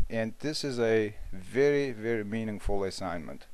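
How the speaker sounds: talking between sips of tea; words with a mouthful of tea; drinking tea. Real, not acted. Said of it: "I'm sorry, I'm drinking tea".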